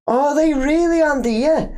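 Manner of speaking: high, incredulous "are they really"; can't believe what the fans want; surprised disbelief. Real, not acted. Host reacting in disbelief to a chat comment, incredulous.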